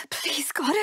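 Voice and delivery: whispered prayer; desperate whispered prayer. Acted. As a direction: breathe the prayer.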